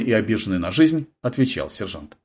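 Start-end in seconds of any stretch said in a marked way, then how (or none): none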